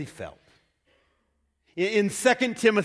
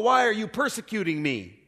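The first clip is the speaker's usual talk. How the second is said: higher, ringing divine voice; calling voice; 4 semitones higher than usual. Retold or imitated. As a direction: ask it as a voice from above. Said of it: "a voice calling me".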